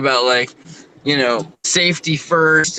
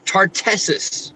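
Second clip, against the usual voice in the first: slow, drawn-out Tartessus; dramatic reveal; 4 semitones higher, slower than usual. Shown as a demonstration. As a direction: savour Tartessus as a big reveal. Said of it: "get ready for this".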